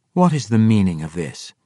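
sharp demanding priestess. Acted. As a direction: demand it with authority. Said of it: "Sarabel demanded".

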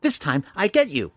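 high sprite voice, sly and breathy; a tiny sprite hissing a threat; twinkling breathy fairy whisper. A narrator's reading. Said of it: "the sprite whispered suddenly".

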